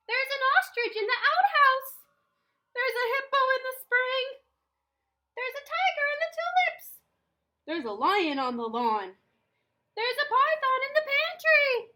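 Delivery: high, loud, thrilled storyteller voice; each animal a delighted surprise; excited listing. A narrator's reading. Storyteller lists animals everywhere.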